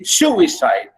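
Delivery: "suicide" as one word with SU stressed; SU-i-cide, teacher's example word; stress on first syllable. Shown as a demonstration. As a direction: lean on the start of "suicide", let the rest fall. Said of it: "a stressed syllable followed by two unstressed".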